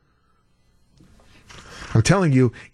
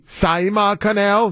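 put-on drawn-out, higher Finnish accent; mock Finnish; 4 semitones higher, slower than usual. Host listing Finland's canal, mock Finnish accent. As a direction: say it slowly like a pretend Finn. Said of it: "You gotta say it like a, a Finnish".

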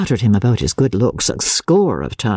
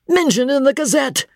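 high-pitched incredulous repeat; much higher, scornful questioning; indignant echo; 13 semitones higher than usual. A narrator's reading. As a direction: throw the words back in disbelief. Angry George echoes it back scornfully.

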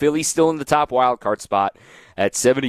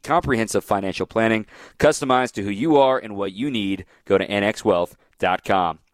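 ad read. Acted. Live sponsor read.

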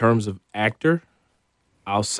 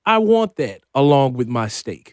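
hammed-up hungry diner; 3 semitones higher, 5 dB louder than usual. Playing greedy diner.

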